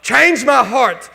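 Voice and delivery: loud, urgent pleading to God; fervent prayer. Pretend. A hurt spouse alone pleading loudly with God. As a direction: cry out to God to change your heart. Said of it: "where I can say".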